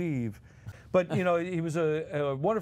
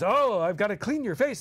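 put-on fussy child voice; 5 semitones higher, 4 dB louder than usual. Dom voices himself as boy.

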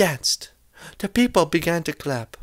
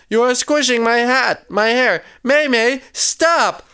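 high-pitched, protesting wail; crying out; 7 semitones higher than usual. A narrator's reading. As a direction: protest as the hat gets squashed. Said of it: "cried Rose".

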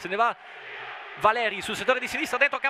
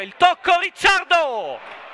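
breathless italian goal commentary; 4 semitones higher, 5 dB louder, slower than usual. Real, not acted. Near-goal chance, rising commentary.

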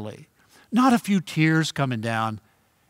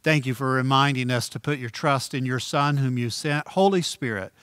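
closing prayer. Real, not acted.

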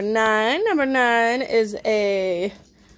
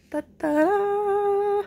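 ta-da; 10 semitones higher than usual. Real, not acted. Shows the back of top.

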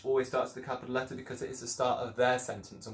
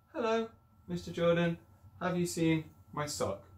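Missus Jordan's voice; 6 semitones higher than usual. Acted. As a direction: draw it out as the fussy lady. Rereading Missus Jordan's line.

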